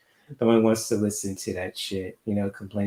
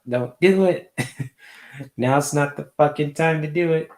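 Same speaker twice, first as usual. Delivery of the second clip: excited warning; 7 semitones higher, 6 dB louder than usual. Real, not acted. Playful warning to viewers.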